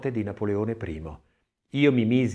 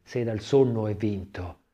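measured, solemn verse reading; poem recitation. Acted. Reading Manzoni's poem on Imbonati's death to listeners, solemn verse recitation. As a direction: recite the lines like a grieving son speaking to his lost mentor. Reads the poem over music.

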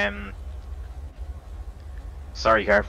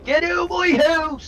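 furious shout; slower than usual. Real, not acted. Man yelling at house intruders.

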